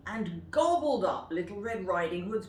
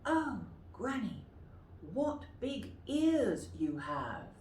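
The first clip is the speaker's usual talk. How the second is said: softer Red Riding Hood; 4 semitones higher than usual. Shown as a demonstration. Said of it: "Would you like to say that?".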